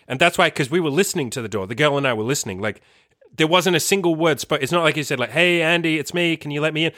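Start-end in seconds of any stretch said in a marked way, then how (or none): 5.3-6.9 higher-pitched voice for the imagined mate; mock calling out. Imagined mate asking through the door to come in, mock calling out.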